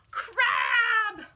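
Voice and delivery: high, loud crab announcement; delighted high shout; excited reveal. Pretend. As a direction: burst out with the name.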